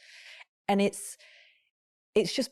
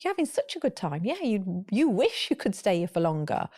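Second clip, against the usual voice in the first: empathetic parent. Shown as a demonstration. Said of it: "if you lead with".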